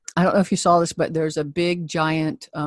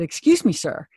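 pointed. Retold or imitated. Confronting a man in the camper.

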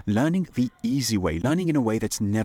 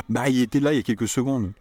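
fast, firm and emphatic; confident snappy French; certain bah; 4 semitones higher, faster than usual. Shown as a demonstration. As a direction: insist he definitely was here. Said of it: "he definitely was here".

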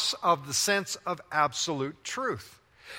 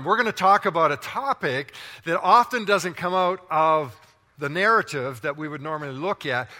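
full-force preaching; 4 dB louder than usual. Acted. Revved-up preaching after demo.

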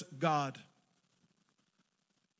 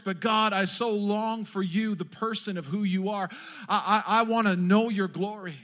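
fervent louder cry of longing; 2 semitones higher, 3 dB louder than usual. Retold or imitated. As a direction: plead with God, pouring your heart out. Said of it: "the cry of Moses was saying".

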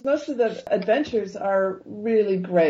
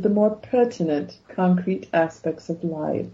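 reciting a Doctor Who quote in mock English; English accent. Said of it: "She's trying to do an English accent again".

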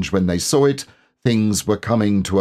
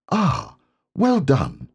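kind; 7 semitones higher, slower than usual. Acted. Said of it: "said Rabbit kindly".

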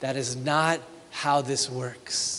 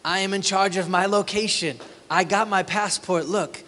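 higher mock swagger; arrogant boast; 3 semitones higher than usual. Pastor mocks a traveling merchant, smug. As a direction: boast smugly, lightly hammed. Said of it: "Do you feel it?".

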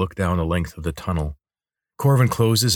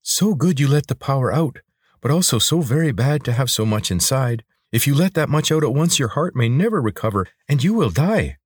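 higher-pitched, earnest creature; concerned lizard, warning; 7 semitones higher than usual. Acted. Lizard warns Corvin about the power inside, concerned. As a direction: caution a master in a lifted lizard voice.

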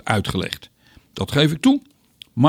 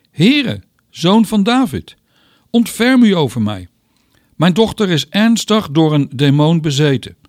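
a pleading cry, pitched higher and a touch louder; calling out; 4 semitones higher, 3 dB louder than usual. Acted. Canaanite woman cries out to Jesus for her daughter, pleading call. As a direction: beg him for help across the crowd. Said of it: "riep naar hem".

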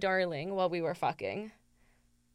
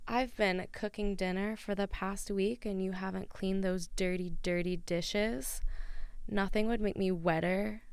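sultry voice; 2 semitones lower, 5 dB quieter than usual. Acted. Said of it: "is that good".

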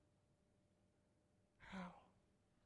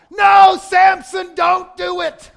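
much higher, louder, slow anguished shout; 12 semitones higher, 21 dB louder, much slower than usual. Retold or imitated. Pastor yelling at Samson while reading his Bible. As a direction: yell the warning at Samson as if he could hear. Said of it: "I literally shouted out loud".

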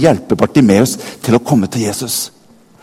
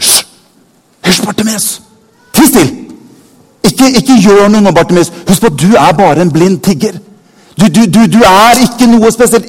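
a hint of a scolding crowd, higher and pushy; crowd shushing him; 6 semitones higher, 4 dB louder than usual. Bystanders shushing blind Bartimeus, lightly voiced scolding. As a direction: hush the beggar down, dismissive. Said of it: "De nærmeste rundt ham begynner".

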